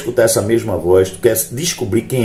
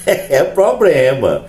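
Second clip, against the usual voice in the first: laugh, then a drawn-out punchline; joking, stretched-out words after a laugh; amused aside; 4 semitones higher, much slower than usual. Real, not acted. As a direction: chuckle into a slow, higher delivery. Laughs at own joke mid-sentence.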